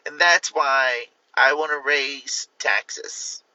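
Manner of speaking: lightly voiced politician rambling about bills; Kamala Harris impression. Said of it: "my best impression of Kamala Harris".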